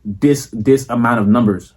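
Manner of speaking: a hint of a formal investment pitch; lightly polished salesman addressing a client; mildly formal boardroom pitch, close to his own voice; proper business voice. Shown as a demonstration. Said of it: "not like how I'm talking right now".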